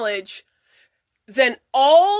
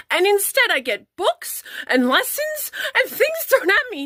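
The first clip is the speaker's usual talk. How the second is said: near tears; 4 semitones higher than usual. Real, not acted. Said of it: "I'm trying not to cry too much".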